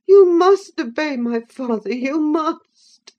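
cling and beg; sobbing plea. A narrator's reading. Linton sobbing as he clings to Catherine, begging.

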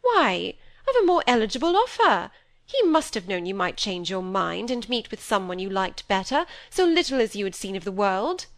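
a vain mother praising a rich suitor; gushing society mother. Acted. Mother voice again.

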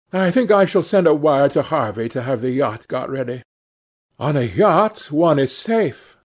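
a touch of high-strung weariness; pathos-laden Dorian, burdened and restless. Acted.

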